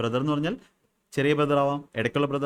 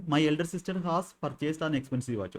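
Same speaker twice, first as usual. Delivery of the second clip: slow dictation; 4 semitones higher, much slower than usual. Shown as a demonstration. Teacher reading an example sentence to students, slow and deliberate. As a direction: read out very slowly, word by word.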